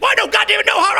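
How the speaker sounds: high, loud mock yell; shouting in a heated draft bidding; retold drunk yelling. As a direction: throw a drunken yell at him. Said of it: "starts yelling at me".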